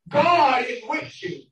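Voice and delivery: preacher voicing a mother's comfort, slowly; retold solemn reassurance. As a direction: draw each word out to reassure.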